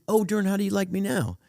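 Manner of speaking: high, loud dawning disbelief; retold incredulity. Comic asking the singer about that song, incredulous. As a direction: replay a baffled realisation at high pitch.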